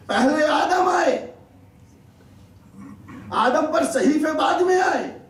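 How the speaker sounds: measured preaching building in pitch; rhetorical preaching. Real, not acted. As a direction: drive each statement home to the congregation.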